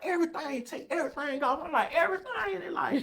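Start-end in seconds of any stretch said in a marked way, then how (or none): 0.0-1.6 high, loud command; barked order. Retold or imitated. Guard ordering. 1.9-2.6 high, squeaky incredulous question; can't believe what he heard; shocked disbelief. Retold or imitated. Shocked at stripping order.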